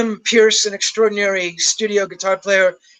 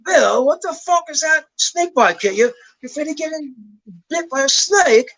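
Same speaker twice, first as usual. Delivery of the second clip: higher, incredulous Brummie impression; mock Birmingham accent, baffled and scolding; imitating a Birmingham accent in disbelief; a singer's Birmingham accent; 7 semitones higher than usual. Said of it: "that Birmingham accent".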